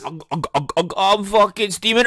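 put-on drunk groaning. Drunk groaning after drinking.

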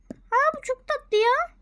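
high, slow whispered coo; squeaky whisper. Real, not acted. Whispering to viewers about a cute item.

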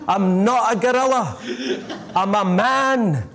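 high, drawn-out cry for help; hammed-up scream for rescue; panicked scream. Man in gorilla act begs for rescue from the lion, screaming. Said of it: "he began to scream".

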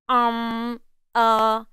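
drawn-out, level "Um, uh" fillers; thinking hesitation. Shown as a demonstration. Teacher showing what we say when thinking, drawn-out hesitation. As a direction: hold each filler as if searching for words. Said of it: "sound that comes out of our mouth when we are thinking".

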